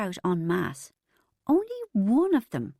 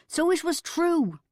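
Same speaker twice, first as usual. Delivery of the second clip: much higher, slow, exultant; triumphant; 9 semitones higher than usual. A narrator's reading. Narrator and Bridget proven right, exultant and higher. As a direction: savour the proof with delight.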